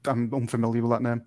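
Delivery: slow, dry feigned ignorance; sarcastic. Acted. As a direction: play dumb, deadpan and drawn out. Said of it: "I think you underestimated the sarcasm in my voice".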